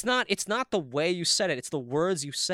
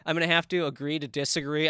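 lightly imitated Minnesotan accent; a touch of polite Minnesotan accent. Quoting what only Minnesotans say, light accent. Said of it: "the only ones who say".

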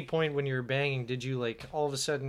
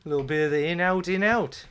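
a light Alex from Clockwork Orange; Malcolm McDowell; 2 semitones higher than usual. Pretend. Friends asking for accents, a light Malcolm McDowell droog voice. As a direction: relish it like a sly droog. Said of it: "He's trying to do Clockwork Orange".

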